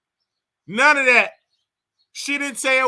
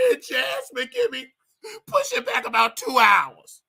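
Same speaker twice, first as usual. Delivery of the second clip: mock crying; 3 semitones higher than usual. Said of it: "you getting the story all wrong".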